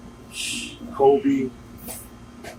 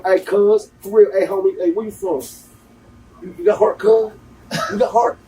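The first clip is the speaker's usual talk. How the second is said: imitating LA gangster; 4 semitones higher than usual. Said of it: "You know".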